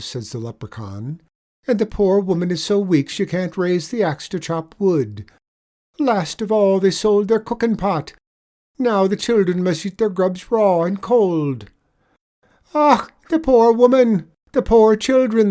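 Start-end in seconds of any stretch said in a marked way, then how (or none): 1.7-11.7 higher, louder leprechaun lilt, mock pity; sly leprechaun. Leprechaun spinning a pitiful tale for the tradesman, higher lilt. 12.7-15.5 high, loud sobbing wail. Acted. Tradesman wailing over the poor family, loud high sobbing. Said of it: "the tradesman sobs out".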